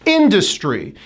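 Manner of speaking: Industry as IN-dus-try; Industry, stress on IN; high then drop. Shown as a demonstration. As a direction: start Industry high and let it fall. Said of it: "You hit it high and you drop".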